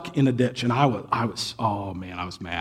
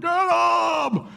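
cursing congregant; 13 semitones higher than usual. Retold or imitated. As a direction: shout like a kid urging a beating. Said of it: "They're like".

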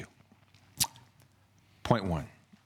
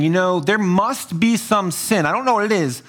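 lightly acted accuser, higher-pitched; a hint of a self-righteous accuser, pitched up; accusing heckler; 5 semitones higher than usual. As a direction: play a suspicious fault-finder. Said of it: "Maybe they're even saying".

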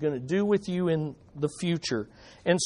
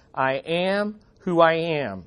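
God's voice. Acted. God speaks his name.

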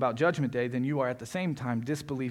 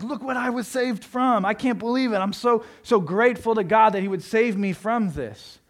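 much higher and louder, slowed, overwhelmed gratitude; grateful believer; 8 semitones higher, 6 dB louder than usual. Retold or imitated. Believer reading scripture, voicing grateful joy higher and louder. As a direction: gush with thanks as if just rescued.

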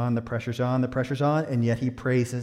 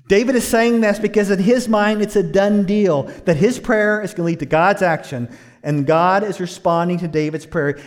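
raised, louder preacher's voice; emphatic preaching; 7 semitones higher, 8 dB louder than usual. Real, not acted. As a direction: preach it with rising energy, then easing.

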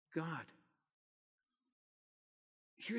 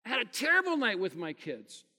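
despairing self-talk; 7 semitones higher, 9 dB louder than usual. Retold or imitated. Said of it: "I go".

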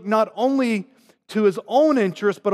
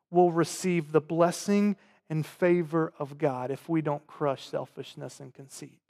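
normal talking voice

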